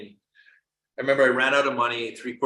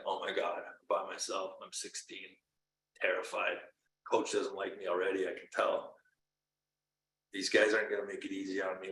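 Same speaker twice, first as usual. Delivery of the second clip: tearful whisper; 4 semitones lower, 8 dB quieter than usual. Retold or imitated. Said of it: "I just start sobbing".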